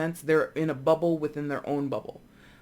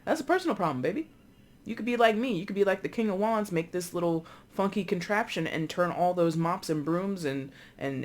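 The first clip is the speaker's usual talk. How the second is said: lightly raised, breezy brush-off; dismissive husband; 3 semitones higher than usual. Retold or imitated. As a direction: toss it off like a smug, unbothered husband. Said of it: "And he's like".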